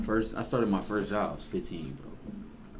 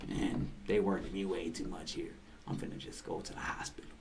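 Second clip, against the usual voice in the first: faked tired coworker; 3 semitones lower, 10 dB quieter than usual. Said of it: "he was like".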